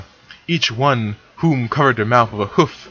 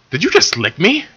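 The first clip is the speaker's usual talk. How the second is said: annoyed; 8 semitones higher than usual. Acted. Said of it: "in an annoyed tone".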